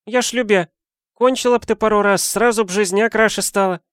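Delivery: high, bright-pitched coaxing friend; Valentina voice. A narrator's reading.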